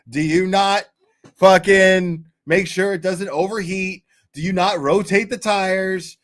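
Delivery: hammed-up outrage at the judgers; mock rant. Ranting at chat about his foot massager, mock outrage.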